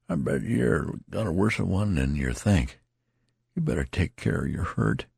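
lightly voiced country soldier; tattered soldier. A narrator's reading. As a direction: play the rambling wounded soldier. Tattered man speaking.

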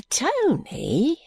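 high hushed whisper. Acted. Guppy whispering to Tony late at night. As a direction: breathe the name secretly.

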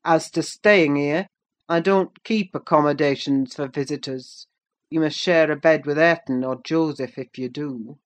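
stern, forceful master of the house; stern Heathcliff. Acted. Master lecturing the stranded visitor from the kitchen, stern. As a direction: call it out as a harsh lesson.

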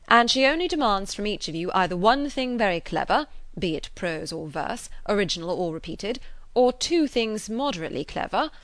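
loud, lively master-of-ceremonies address; public announcement. Acted. Frank announcing a game to the party, mock-official. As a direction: proclaim the rules with mock pomp.

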